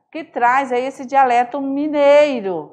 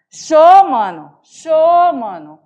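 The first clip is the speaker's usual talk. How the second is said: Cuiabá accent greeting; cuiabano greeting; 2 semitones higher, 6 dB louder, slower than usual. Shown as a demonstration. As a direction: hail a friend with Show. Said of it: "Cumprimenta um amigo".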